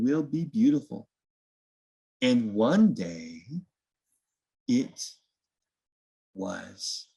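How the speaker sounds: gentle storybook reading, unhurried; reading to children. A narrator's reading. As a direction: read it like bedtime story time for little ones.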